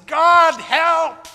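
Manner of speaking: high, loud yell of terror; desperate cry for help. Acted. Camper yelling to God as the bear attacks. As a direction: scream for rescue at the bear.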